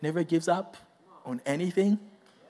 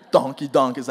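laughing; 6 semitones lower than usual. Real, not acted. Repeats answer laughing.

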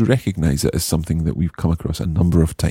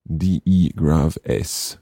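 spelling letter by letter, slowly; dictating; slower than usual. Shown as a demonstration. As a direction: dictate each letter to a class. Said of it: "You can also use dès que".

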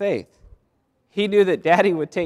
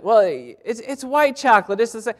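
higher, coaxing aunt's voice; insistent aunt; 6 semitones higher than usual. Retold or imitated. Aunt coaxing her nephew to take the bunny, higher and insistent. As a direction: gently insist it's the same chocolate.

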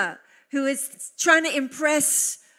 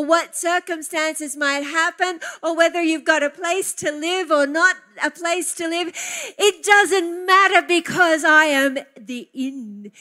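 loud, tearful, swelling preacher's cry; impassioned preaching; 5 semitones higher, 8 dB louder than usual. Real, not acted. Preacher telling the congregation he is in Christ, loud and tearful. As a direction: preach it with the voice breaking from feeling. Preacher rising to emotional peak.

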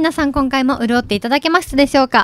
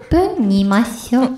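cooking show granny. Retold or imitated. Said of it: "料理番組みたいな。".

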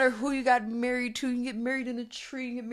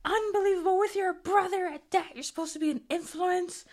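mock scolding mom; 11 semitones higher than usual. Mother scolding daughter about her brother, mock disapproval. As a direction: scold like a strict churchgoing mom. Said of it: "she's like".

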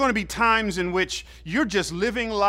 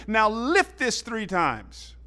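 slow, raised coach command; a touch louder, drawn-out order; 5 semitones higher, slower than usual. Retold or imitated. Coach orders freshman in front of everybody, slow loud command. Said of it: "He says loud in front of everybody".

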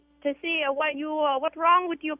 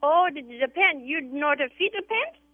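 put-on Vietnamese accent. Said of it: "The Asian cleaners".

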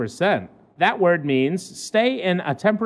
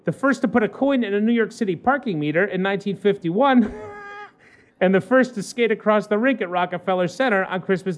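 measured newspaper read-aloud; lightly performed human-interest news read; news story read; 4 semitones higher than usual. Acted.

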